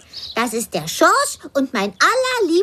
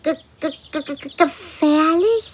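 frightened stutter; 3 semitones lower than usual. Acted. Frightened by predator talk.

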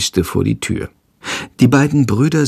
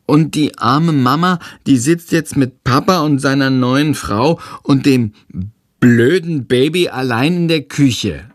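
put-on high child voice, a touch worried; a boy feeling sorry for mum; little boy, worried; 4 semitones higher than usual. Tom telling his brother mum is left alone, worried child voice.

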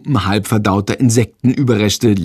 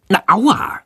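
crying out; 10 semitones higher than usual. A narrator's reading. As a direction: yelp as if bitten. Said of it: "schreit Jendrik laut". (kurzer hoher Schmerzensschrei)

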